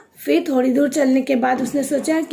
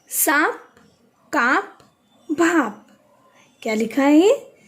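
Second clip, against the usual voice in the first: whisper. Real, not acted. Teacher reading word list to class.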